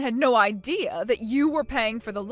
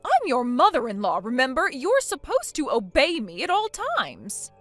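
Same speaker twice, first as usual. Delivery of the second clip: loud, indignant lecture; angry scolding; 3 semitones higher, 4 dB louder than usual. Acted. Mother-in-law demanding obedience, loud and indignant. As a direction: put the brat in her place.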